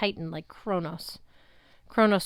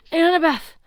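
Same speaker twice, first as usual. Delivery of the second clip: higher, louder desperate cry; Luke's own voice; 9 semitones higher, 9 dB louder than usual. A narrator's reading. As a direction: break through as yourself. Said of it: "it was Luke's".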